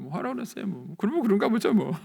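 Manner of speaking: very high, singsong brush-off; breezy dismissal. Retold or imitated. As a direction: shrug it off in a high voice. Carefree reply, contrasted with anger. (높은 목소리로 태연하게 흘려 넘기기)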